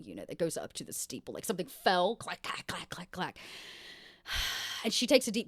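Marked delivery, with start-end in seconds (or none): 2.2-3.4 tag. Acted. Imitates metal falling down stairs.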